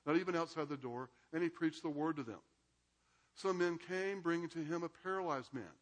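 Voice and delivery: measured Bible reading to the class; reading scripture aloud. A narrator's reading. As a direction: read the passage aloud, steady and clear. Reads the Gospel passage aloud.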